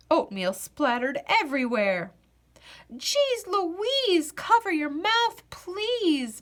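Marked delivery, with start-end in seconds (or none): 2.9-6.4 higher, cranky mom scolding; not-so-good-morning voice. A narrator's reading. Mommy scolding Louise at breakfast, cranky and high. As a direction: scold her like a grumpy mother at breakfast. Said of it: "in a not-so-good-morning voice".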